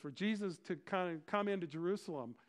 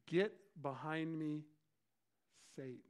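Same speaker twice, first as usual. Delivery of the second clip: stern rebuke. Acted. Jesus rebuking Peter, stern and deliberate. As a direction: deliver a measured rebuke, word by word. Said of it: "Talk about a rebuke".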